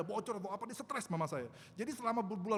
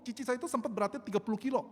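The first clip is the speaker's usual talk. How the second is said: ordinary talk, nothing marked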